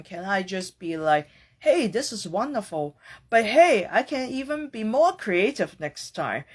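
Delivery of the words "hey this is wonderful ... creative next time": cheerful. Pretend. Cheerful alternative to complaining.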